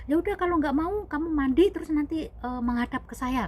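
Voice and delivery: high, loud orders easing off; commanding father. Retold or imitated. Father figure sending her to bathe, commanding. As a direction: imitate an insistent father figure.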